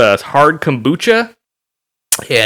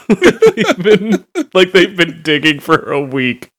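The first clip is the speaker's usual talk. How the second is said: laughing through the words; giggling while talking; 6 semitones higher, slower than usual. Real, not acted. Laughing at own joke.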